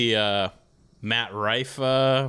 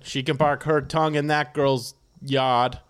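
put-on Boston accent. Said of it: "I can do Boston".

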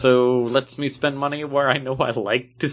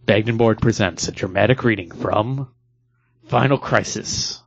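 announcer voice. Acted. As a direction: announce it like a movie trailer. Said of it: "we first must do dramatic reading".

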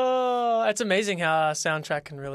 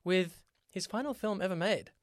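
a mock Aladdin-style announcer; odd accent; 2 semitones higher than usual. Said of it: "I don't know why I did that accent".

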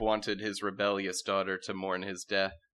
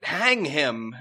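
loud, higher angry heckle; crowd shout; 6 semitones higher, 6 dB louder than usual. Acted. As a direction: yell it from the crowd. Court shouting at Frosh.

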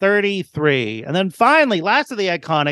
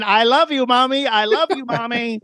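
mildly mimicked scream, pitched up; retold robot scream; 4 semitones higher than usual. Pinocchio-type robot screaming at a woman, mock scream. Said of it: "robot thrusting against a woman and screaming".

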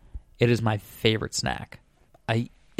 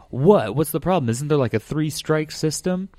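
higher mock-indignant protest; baffled culprit; 5 semitones higher than usual. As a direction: play the caught vegan objecting, pitched up. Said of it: "And he was like".

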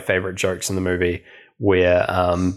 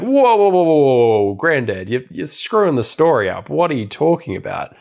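mock whiny kid protesting, higher; indignant grandson; 6 semitones higher than usual. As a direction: play the upset boy cutting in, hammed-up. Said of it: "the grandson being like".

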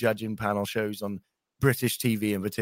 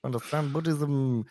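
Chris Eubank impression; 3 semitones higher, slower than usual. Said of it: "he's like".

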